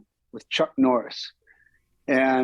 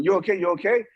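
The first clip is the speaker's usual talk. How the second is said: high concerned you okay; worried crew asking; 5 semitones higher than usual. Retold or imitated. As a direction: call out with rising concern. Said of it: "everyone running over going".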